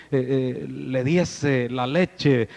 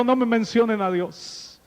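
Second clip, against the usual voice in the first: angry refusal; 5 semitones higher than usual. Retold or imitated. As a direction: bark out "No me mencionen a Dios". Grieving man rejects God.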